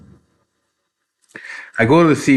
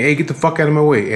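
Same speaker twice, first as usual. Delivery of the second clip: higher-pitched imitation of her ordering people aside; mock irate woman; 5 semitones higher than usual. Woman coming down the aisle at shoppers, mock irate. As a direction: mildly mimic a pushy woman. Retelling the woman pushing through.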